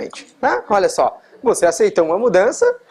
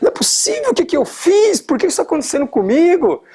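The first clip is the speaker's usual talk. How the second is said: mock panicked denial; 5 semitones higher than usual. Driver whose car won't start, mock panicked disbelief. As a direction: pitch jumps up into a half-acted panic of disbelief. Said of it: "aí você começa a negar".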